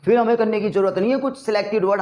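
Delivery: ordinary delivery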